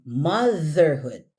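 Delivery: "Motherhood" slow, tongue between teeth on the th; clear th sound. Shown as a demonstration. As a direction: give "Motherhood" a careful voiced th. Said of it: "it's the the, the sound again".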